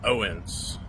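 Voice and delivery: loud, slow name call. Acted. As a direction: draw out the name. Wrestler promo address.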